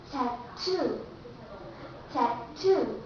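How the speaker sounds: tattoo with TOO stressed and aspirated T; tattoo, hit the TOO; stress on second syllable. Shown as a demonstration. Teacher showing stressed syllable. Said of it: "We have to stress here".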